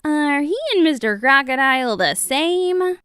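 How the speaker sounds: high, loud crowd question; astonished storybook crowd; crowd shout. A narrator's reading. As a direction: call it out high as everyone. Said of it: "and everyone shouted".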